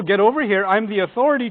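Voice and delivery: a stern commanding voice, only lightly; evil authority. Retold or imitated. Wife acting the authority, a mild stern command. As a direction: play the bossy accuser, half-serious. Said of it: "from the evil".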